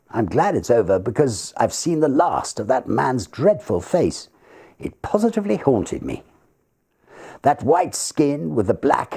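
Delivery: a hint of a disturbed young man; young secretary, haunted. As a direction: let the memory unsettle him. Secretary recalls murderer.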